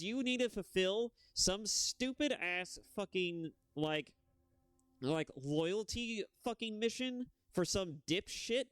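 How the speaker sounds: imitating someone losing his mind at fools; exasperated rant. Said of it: "He should be losing his mind".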